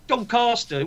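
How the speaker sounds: Doncaster with a drawn-out "ah" in the middle; mock southern pronunciation. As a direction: imitate southern "Don-CAHS-ter" for Doncaster. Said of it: "fit in more with fucking down south people".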